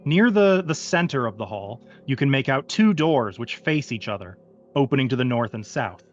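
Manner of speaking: game master narration. Acted. Game master sets the scene.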